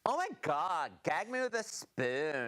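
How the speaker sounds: put-on valley girl. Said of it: "only talk like Valley Girl".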